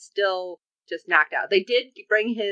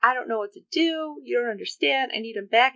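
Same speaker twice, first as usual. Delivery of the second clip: 1 imitating tearful plea; 5 semitones higher than usual. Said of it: "When she's like".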